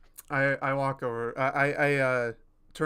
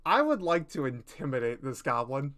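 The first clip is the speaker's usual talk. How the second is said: wild intimidating voice. Acted. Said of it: "this man's got some wild fucking".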